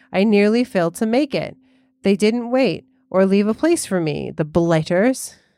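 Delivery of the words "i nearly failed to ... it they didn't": plain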